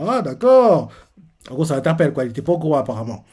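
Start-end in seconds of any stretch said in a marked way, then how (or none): 0.1-0.9 surprised realisation. Retold or imitated.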